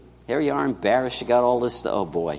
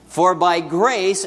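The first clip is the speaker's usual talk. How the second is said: slow, lifted read-aloud of the verse; drawn-out congregational cue; leading the reading; 5 semitones higher, 3 dB louder, slower than usual. Shown as a demonstration. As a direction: stress on grace. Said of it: "let's say this together".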